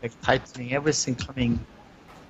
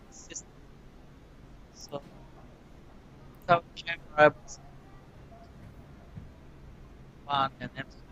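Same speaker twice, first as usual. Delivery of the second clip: dropping in and out over a bad line; audio cutting out; 12 dB quieter, faster than usual. Real, not acted. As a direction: voice fading away as the connection breaks. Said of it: "is cutting your audio".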